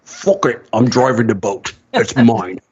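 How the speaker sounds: lightly imitated Scottish actor, offhand; Sean Connery. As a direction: shrug it off in a mock Scottish accent. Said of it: "He's just like".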